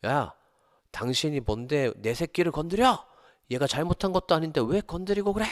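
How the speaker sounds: high-pitched outraged yell, rising as it goes; acted angry shout. Teacher confronting the administrator who hit his student, shouting angrily. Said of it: "소리치셨어요".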